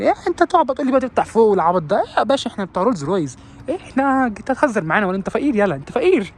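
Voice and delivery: high, scornful snob voice; a high put-on voice mocking a snob; mock rich snob. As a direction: sneer like a spoiled rich guy. Mocking rich snob's attitude.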